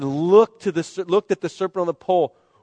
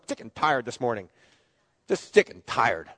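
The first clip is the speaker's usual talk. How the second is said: weary morning moan; 7 semitones lower, 4 dB quieter than usual. Retold or imitated. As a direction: drag it out like waking up fed up. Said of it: "You ever get up in the morning".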